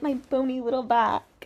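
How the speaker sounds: lightly put-on singer voice; a hint of mimicry of the singer; mocking imitation. Commentator mimicking the singer's little turn, lightly mocking. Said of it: "she does a little turn".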